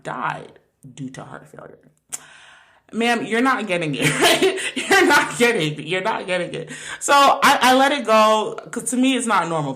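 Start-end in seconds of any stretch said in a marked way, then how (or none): 2.9-6.7 laughing exasperation. Real, not acted. Retelling the call to mom, laughing exasperation. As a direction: laugh through the frustration.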